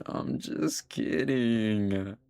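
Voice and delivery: drawn out to calm Ben down; gentle reassurance. Real, not acted.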